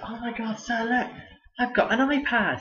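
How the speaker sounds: mock-girly excited squeal; imitating an excited girl. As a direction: mimic a gushing pupil showing off. Excited student showing off iPad.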